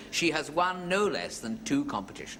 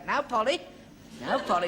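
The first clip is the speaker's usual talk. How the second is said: put-on high cooing old lady voice; old lady to parrot; 8 semitones higher than usual. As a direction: put on a high-pitched old lady talking to her pet. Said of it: "Nothing like an old lady talking to a parrot".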